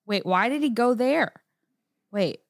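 high, quick mock questions; imitating relatives. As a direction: mimic relatives asking through a movie. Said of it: "They'll be like".

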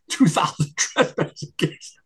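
laughing in disbelief, drawn out. Real, not acted. Guest scoffing at the wasted trespassing cases, laughing. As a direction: say it slowly through laughter. Laughs at the needless case count.

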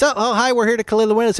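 a high, chirpy polite greeting; mimicking the washer's cheerful hello; high friendly voice. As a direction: play the window washer bright and eager. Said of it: "And he goes".

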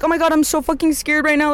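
high-pitched hammed-up fright; mock panic. Imitating someone who makes a commotion, mock panic. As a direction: play the over-dramatic scaredy type. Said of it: "not the type to be like".

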